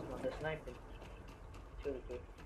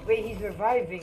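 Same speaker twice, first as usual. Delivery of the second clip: combat callout; 6 semitones higher, 8 dB louder than usual. Real, not acted. Callout enemy reviving.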